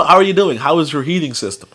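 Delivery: careful, proper phone voice; lightly imitated standard American caller; white American caller. Imitating a white person on the phone, careful and proper. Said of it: "a white person would be like".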